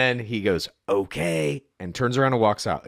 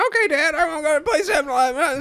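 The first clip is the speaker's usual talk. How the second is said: put-on very high-pitched voice of a young kid; 4 dB louder than usual. Asked to repeat it, the speaker imitates their seventh-grade self answering Dad. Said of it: "Can we hear that again?".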